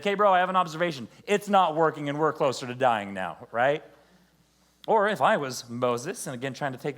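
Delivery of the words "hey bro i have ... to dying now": sarcastic, loud and fast; snarky bro, fast and loud. Acted. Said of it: "that sarcastic one's gonna be like".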